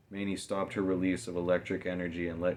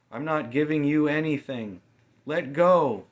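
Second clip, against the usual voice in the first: high, loud, clenched snarl; enraged girl on a rope; furious refusal; 9 semitones higher, 9 dB louder than usual. A narrator's reading. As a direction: refuse with rising rage.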